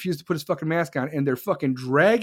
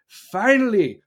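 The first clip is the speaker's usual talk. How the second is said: "Finally" pushed higher and louder with relief; louder relieved finally; 5 semitones higher, 5 dB louder, slower than usual. Shown as a demonstration. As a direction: belt out "Finally" like it's about time. Repeated word, second one louder.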